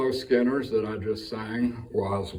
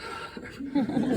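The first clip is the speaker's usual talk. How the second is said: breathless sigh. Real, not acted.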